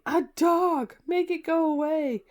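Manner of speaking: put-on high, loud, panicky girl's plea; frightened girl. A narrator's reading. Scared girl in the car pleading, frightened. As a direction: beg for the dog to be gone.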